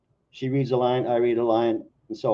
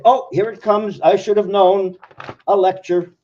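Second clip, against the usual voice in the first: exasperated; 7 semitones higher, 7 dB louder than usual. Acted. Exasperated reply in poem dialogue.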